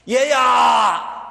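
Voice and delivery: long, high, loud cry across the fields; father calling out. Acted. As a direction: call the lost son from afar at full voice. Father runs calling his son.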